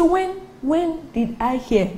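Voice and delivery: high, slow, puzzled questioning; mock incredulous. Preacher imagining God's answer to Jonah, mock incredulous.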